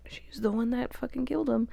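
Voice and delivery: hushed, incredulous whisper; whispered outrage. Real, not acted. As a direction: hiss it quietly in disbelief. Outraged aside about the accusation.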